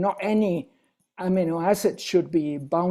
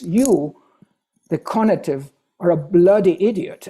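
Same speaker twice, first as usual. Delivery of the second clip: "You" and "bloody" pushed louder; stress on bloody; 4 dB louder than usual. Shown as a demonstration. Lecturer punching "bloody" in the road slogan. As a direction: lean on "bloody idiot". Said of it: "But then look at this".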